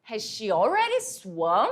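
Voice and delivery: slow question with a surprised rise at the end; mildly surprised question. Shown as a demonstration. Mother finding her daughter's swimming class already over, mildly surprised. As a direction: ask it as if a little surprised. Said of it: "Perceba a minha entonação. Eu tô um pouco surpresa".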